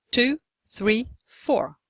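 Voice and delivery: "Two", "three", "four" each a separate stressed beat; three even beats. Shown as a demonstration. Lecturer gives rhythm example, "Two, three, four" as three stressed beats. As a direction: count "Two, three, four" in steady time, falling on "four". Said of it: "three stressed syllables".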